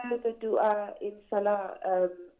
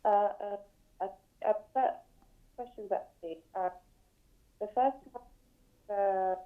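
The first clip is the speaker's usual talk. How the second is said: scrambled voice. Real, not acted. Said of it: "Sister, your line is cutting up".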